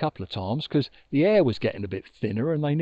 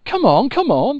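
squabbling geese; 7 semitones higher, 8 dB louder than usual. Acted. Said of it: "squabbling like farmyard geese".

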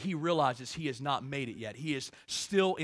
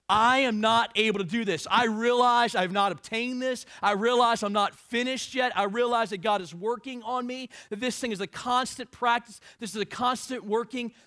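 preaching Paul quote; 5 semitones higher, 6 dB louder than usual. Acted.

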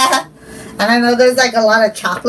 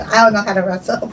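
fast, laughing through the words; 4 semitones lower, faster than usual. Real, not acted. Kid laughing while admitting she can't wrestle. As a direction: giggle your way through it.

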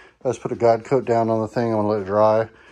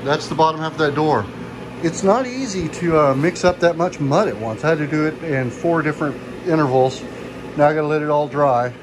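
raised voice over machine noise; yelling over leaf blower; 3 semitones higher than usual. Real, not acted. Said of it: "Sorry for the blower going on here".

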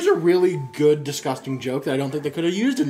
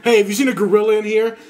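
lion demanding; 4 semitones higher, 6 dB louder, faster than usual. Acted. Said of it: "He goes".

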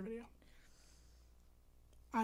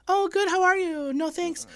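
bright, higher polite phone voice; 5 semitones higher than usual. Retold or imitated. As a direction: put on the polite voice for a call. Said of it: "talk in your phone voice".

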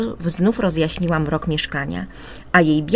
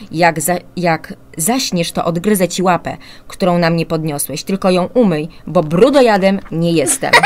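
put-on lightly spooky child-eater; 5 dB louder than usual. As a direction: tease your brother like a storybook ogre. Brother playing a child-eater. (powolny, żartobliwie groźny głos potwora)

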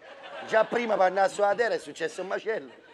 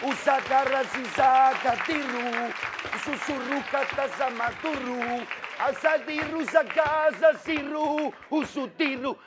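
gibberish vocal warm-up; 3 semitones higher, slower than usual. Shown as a demonstration. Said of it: "io così scaldo la voce".

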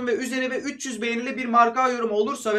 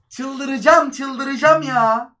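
exasperated outburst; 3 semitones higher, 5 dB louder, much slower than usual. Real, not acted. Gamer fuming after the draw, loud and drawn out. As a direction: stretch it out like you're losing your mind. Team concedes late equaliser.

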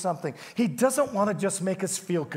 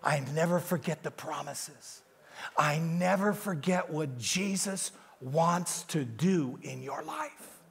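much softer, slow, intimate voice; the Holy Spirit speaking; 4 semitones lower, 6 dB quieter than usual. Retold or imitated. The Holy Spirit reminds Gary of promises, softly and slowly. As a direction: speak it tenderly like a divine whisper. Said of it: "He said".

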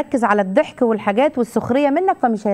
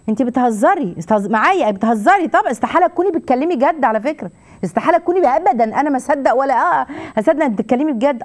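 mock disbelief; 2 semitones higher than usual. Shown as a demonstration. Coach demonstrating a reply to an insult, in mock disbelief. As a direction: act as if the insult can't be serious. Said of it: "أو تقولوا ده".

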